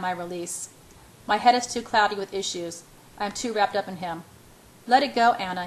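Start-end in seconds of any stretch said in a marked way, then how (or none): 4.9-5.7 urging. Acted. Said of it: "he urges me".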